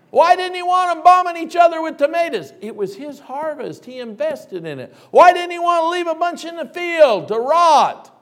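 loud high rhetorical questions; preacher pressing the congregation; preaching at full force. Acted. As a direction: drive the question home. Preacher rising in emphasis.

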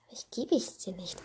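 whispered. Acted. Same refusal repeated whispered.

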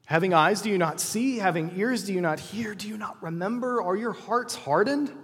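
a gentle teacher's rebuke; Jesus rebuking. Acted. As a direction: press each question home, slowing at the end. Jesus questioning disciples, rebuking.

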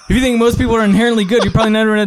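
high, rapid-fire rattle; fastest talking. Acted. Second try at the fast talker card, rapid-fire. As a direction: race the words until you trip over them. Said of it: "I'll try to do my fastest here".

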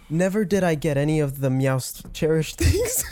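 Meowst said as meow plus st; meowst pun. Acted. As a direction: stretch Meowst like a cat's meow. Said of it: "Can you just say meowst?".

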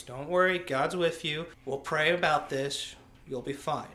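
a hint of a chaplain comforting someone. Chaplain to soldier yelling for help, mild reassurance.

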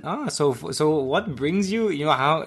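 put-on host quizzing the Scottish guy in the crowd, in an Austrian accent. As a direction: imitate the Austrian host's accent, overly chirpy. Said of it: "he said in his Austrian accent".

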